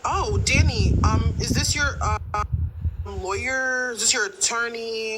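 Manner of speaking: mock surprise, drawn out; sarcastic. Real, not acted. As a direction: tease her with sarcasm. Sarcastic jab about Danny.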